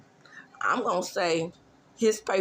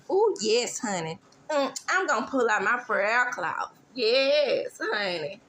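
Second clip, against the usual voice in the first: mock Phaedra; 2 semitones higher, slower than usual. Mimicking Phaedra's churchy catchphrase.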